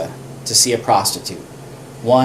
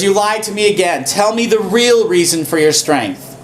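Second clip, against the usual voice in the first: a touch of irritated Delilah, slightly higher; lightly voiced nagging complaint; mock irritated Delilah; 6 semitones higher than usual. Irritated Delilah wants the money, lightly mock. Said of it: "She goes".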